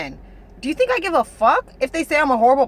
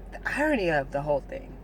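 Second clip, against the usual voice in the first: softer, faster, almost to himself; quiet aside; 7 semitones lower, 7 dB quieter, faster than usual. Real, not acted. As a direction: drop the voice and mutter it quickly. Muttered aside about irony.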